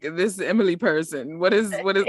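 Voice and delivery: mock a haughty, petty man; imitating a condescending snob. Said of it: "so condescending and petty".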